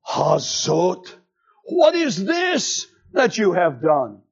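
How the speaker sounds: stern divine question; God rebuking the woman. Acted. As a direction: demand an answer.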